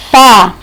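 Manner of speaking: "fá" set apart as the stressed syllable; single out "fá" as one held beat; stressed syllable alone. Shown as a demonstration. Teacher pointing out the tonic syllable, stressed syllable alone. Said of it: "sílaba tônica".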